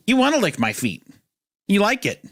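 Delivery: put-on high baby-talk coo; cooing to the dog. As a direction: coo it like talking to a pet. Voicing the lady for the dog.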